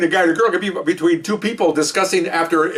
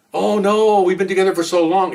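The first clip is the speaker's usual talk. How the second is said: higher-pitched mock heartbroken protest; mock breakup dismay; 3 semitones higher than usual. Jilted golf partner pleading, mock dismay. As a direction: play up being dumped.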